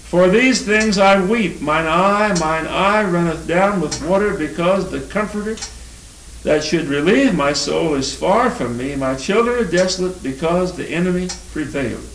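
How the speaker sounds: lamenting King James verse; solemn lament reading. Acted. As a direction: read it as the prophet's grief. Reads Jeremiah's weeping.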